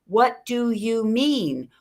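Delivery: slow, drawn-out question; measured question. Shown as a demonstration. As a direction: ask it slowly and deliberately. Models a calm clarifying question.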